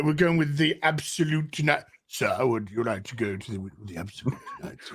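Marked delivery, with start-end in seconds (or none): 2.1-4.9 mock waiter. Playing a waiter offering vodka.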